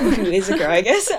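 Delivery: giggling through a sheepish self-correction; laughing. Real, not acted. Laughing as she admits her crush was a girl.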